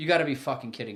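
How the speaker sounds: quiet muttering under the breath. Retelling his reaction when the wrong game came on: retelling an under-breath mutter. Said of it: "under my breath, muttered".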